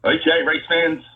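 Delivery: hyped race-day announcer, pitch up; crowd announcer voice. Pretend. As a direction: work the crowd like a trackside announcer. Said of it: "in your best burnout crowd announcer voice".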